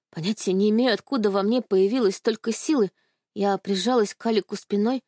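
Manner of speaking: usual speaking voice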